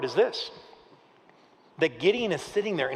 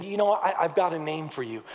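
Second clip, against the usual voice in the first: yearning; 2 semitones lower than usual. Acted. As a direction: speak hope gently into someone hurting. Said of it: "like, yearning".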